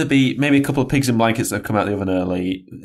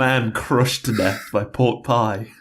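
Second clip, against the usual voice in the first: news headline voice; slower than usual. Pretend. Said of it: "Damn, it doesn't work".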